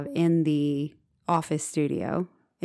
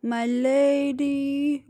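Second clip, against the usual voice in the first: gallant knight; 8 semitones higher, 3 dB louder, much slower than usual. Retold or imitated. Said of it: "it would be like".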